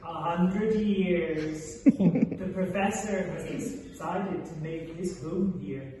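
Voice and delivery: chuckling through it; laughing. Acted. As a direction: laugh as you answer. Laughing answer.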